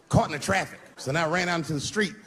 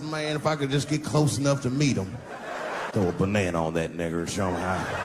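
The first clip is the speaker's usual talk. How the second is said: imitating the racist thrower; 8 semitones lower than usual.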